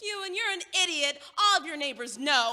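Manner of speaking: scoffing at his fear of the neighbors; loud scornful retort. Acted. Annoyed friend mocking his worry about neighbors, loud and scornful.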